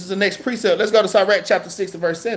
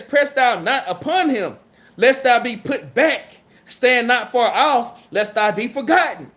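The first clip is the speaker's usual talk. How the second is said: slow, measured scripture reading; solemn Bible reading at an unhurried pace; slower than usual. Acted. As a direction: read the verse out deliberately, word by word. Reads scripture aloud slowly.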